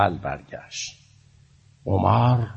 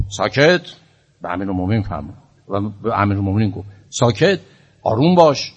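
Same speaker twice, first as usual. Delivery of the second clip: mock angry hush; faster than usual. Preacher voicing Omar hushing the Imam sharply.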